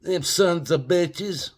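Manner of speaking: slow hammed-up grumble; mock indignation. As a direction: pretend to be offended on their behalf. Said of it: "I'm acting like I know".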